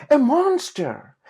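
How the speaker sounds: put-on high, loud and slow, scared child; little piglet terrified; frightened cry. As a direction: shout it out in fright. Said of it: "Patty cried".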